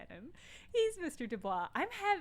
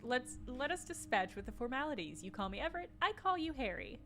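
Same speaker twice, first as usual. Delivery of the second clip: 1 Everett impression; 2 semitones higher than usual. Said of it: "I'm not doing a good Everett impression".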